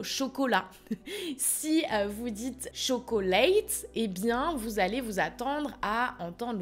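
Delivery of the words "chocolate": CHOCOLATE in three full syllables; every syllable of "chocolate" sounded, cho-co-late; spelled-out pronunciation. Shown as a demonstration. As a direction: say "chocolate" as written, no syllable swallowed. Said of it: "le mot chocolate se prononce chocolate".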